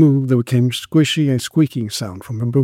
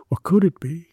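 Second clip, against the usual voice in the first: whispered; 5 semitones higher than usual. A narrator's reading. Constable's puzzled inner thought.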